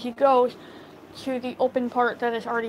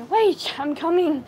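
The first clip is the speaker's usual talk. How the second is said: calling out after someone, higher and louder; hurried mock call, pitched up; retold call; 4 semitones higher, 3 dB louder than usual. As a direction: yell wait as you run to catch up. Colton calling after friend running.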